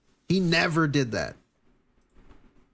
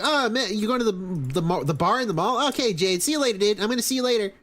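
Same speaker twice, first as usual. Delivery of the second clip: higher goofy dude voice; troll voice; 6 semitones higher, faster than usual. Retold or imitated. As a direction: play the confused troll higher. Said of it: "and he'll be like".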